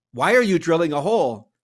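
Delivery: loud, alarmed question; alarmed why. Acted. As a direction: push him for an answer.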